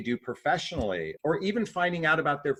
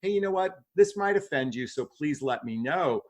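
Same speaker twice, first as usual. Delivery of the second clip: open and upfront. Shown as a demonstration.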